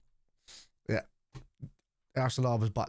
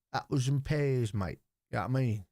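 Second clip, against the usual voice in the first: attempted London accent; 2 semitones higher than usual. Recalling the lost London accent, lightly mocked. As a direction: have a go at an old London accent. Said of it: "Whatever happened to the London accent?".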